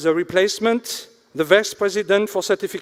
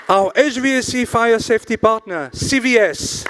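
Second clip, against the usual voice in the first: slow, measured sponsor roll-call; announcer; 2 semitones higher, slower than usual. Acted. Host thanks event sponsors to the room, announcer. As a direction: read out each name with a lift, drawn out.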